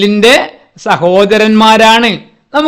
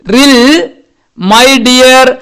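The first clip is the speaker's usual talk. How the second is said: mother bird; 3 semitones higher, much slower than usual. Acted. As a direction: call to her lost chick fondly. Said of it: "അമ്മപ്പക്ഷി ഇതാ ഇവിടെ".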